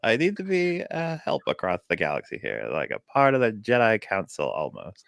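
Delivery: lightly voiced nerdy guy; a hint of a nasal nerd. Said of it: "he's got, like, a nerd voice".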